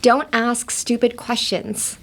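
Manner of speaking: slow, clear teaching read; slow model sentence. Shown as a demonstration. Teacher reads the phrase slowly to the class. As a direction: say each word slowly for learners. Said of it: "One more time".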